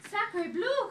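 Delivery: high loud mock French cry; high, loud shocked duck. A narrator's reading. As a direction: squawk it high. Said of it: "cried the duck".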